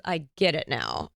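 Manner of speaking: husband finally understanding, low and unhurried. Retold or imitated. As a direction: concede it gently, slowly. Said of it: "he goes".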